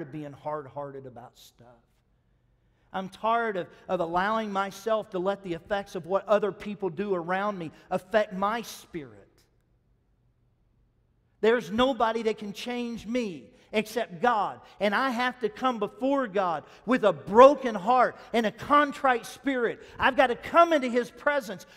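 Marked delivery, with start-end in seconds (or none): 2.9-14.6 much louder, earnest preacher's cry; preaching at full force. Acted. Impassioned preaching. 14.8-19.8 a broken heart and a contrite spirit, much louder and higher; fiery preached declaration; loud preaching. Acted. Loud preached phrase, repeated later. 20.0-21.6 much louder, earnest preacher's cry; preaching at full force. Acted. Impassioned preaching.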